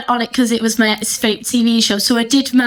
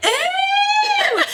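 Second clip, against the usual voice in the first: mock ooh. Mock excited reply to ex.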